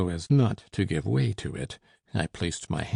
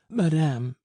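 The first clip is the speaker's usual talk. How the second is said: breathless servant; 8 semitones higher, 4 dB louder than usual. A narrator's reading. Breathless servant gasps one word.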